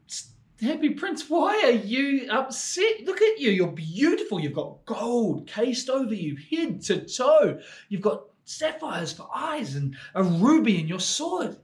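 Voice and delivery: a small swallow gazing up in wonder; swallow's voice. Acted. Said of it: "he said".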